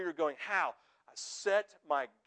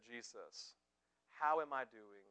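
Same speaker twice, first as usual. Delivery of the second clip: hushed prayer; 7 semitones lower, 11 dB quieter, slower than usual. Acted. Pastor voicing a quiet prayer.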